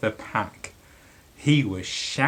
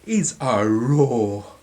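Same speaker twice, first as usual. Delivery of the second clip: a lightly voiced mouse, louder and eager; small mouse voice; 7 dB louder than usual. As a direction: mouse declaring his plan. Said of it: "he said".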